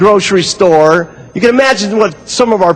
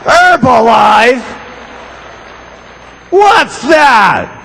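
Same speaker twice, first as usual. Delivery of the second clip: slow, then a higher mock shout; half-hammed angry husband; disbelieving husband; 3 semitones higher, much slower than usual. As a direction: scoff at the word, then bark the question. Husband hears of the diet.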